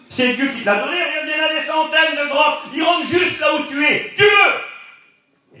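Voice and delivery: high, loud, pressing cry that builds to a yell; urgent shouting. Retold or imitated. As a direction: soldiers shouting at David to strike. Soldiers urge David to kill.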